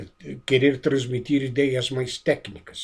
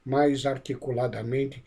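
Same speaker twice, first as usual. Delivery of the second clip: slowly; 5 dB quieter than usual. Shown as a demonstration. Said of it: "tem que se acostumar a falar".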